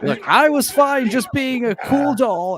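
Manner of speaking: high, slow menacing doll; Chucky voice. Retold or imitated. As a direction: play the doll turning nasty. Voicing Chucky playing possum.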